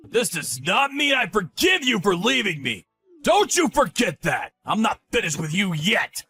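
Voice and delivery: angry yelling. Acted. Ex-husband threatening ex-wife.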